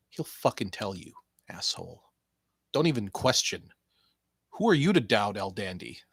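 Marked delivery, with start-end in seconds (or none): 1.5-2.0 whispered insult. Acted. 5.4-6.0 whispered aside. Acted.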